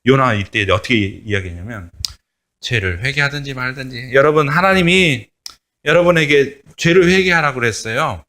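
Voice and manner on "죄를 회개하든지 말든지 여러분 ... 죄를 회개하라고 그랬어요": offhand, half-hearted warning; lazy, indifferent prophet's warning; careless. Retold or imitated. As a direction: toss it off like you don't care. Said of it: "대충 그렇게 이야기했을 거야".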